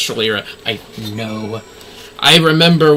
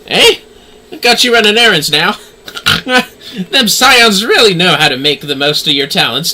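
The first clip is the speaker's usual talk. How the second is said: louder, brisk merchant's voice; voiced merchant; 4 semitones higher, 3 dB louder than usual. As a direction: hawk wares at a customer, a little higher. Streamer voicing merchant Rowena.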